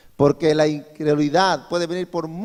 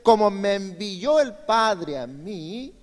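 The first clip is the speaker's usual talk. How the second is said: slow solemn quote; 2 semitones higher, slower than usual. Shown as a demonstration. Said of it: "mira lo que dice".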